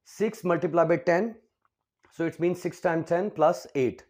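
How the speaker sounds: slow, spelled-out working; slow explanation. Shown as a demonstration. Teacher working out sixty-eight for students, slow and deliberate. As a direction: step through the sum slowly. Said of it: "teacher explains slowly".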